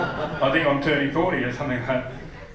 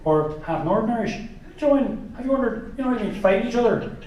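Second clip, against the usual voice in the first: higher, rambling questions that trail into laughter; a lightly voiced, meandering Irish comic, laughing; Jimeoin impression; 5 semitones higher than usual. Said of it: "Jamoan could run Ireland, you know, and be like".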